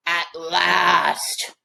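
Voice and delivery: slow, grand proclamation; proclaiming king. A narrator's reading. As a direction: announce it like a proud king. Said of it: "proclaimed King Normus".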